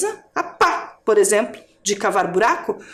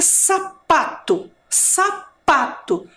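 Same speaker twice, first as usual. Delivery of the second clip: sounding out; 2 semitones higher, much slower than usual. Shown as a demonstration. Teacher sounds out the word.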